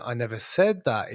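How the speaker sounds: softened, gently reassuring; endearing, comforting. Shown as a demonstration. Showing a kinder tone of denial, endearing and comforting. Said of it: "is a lot more endearing".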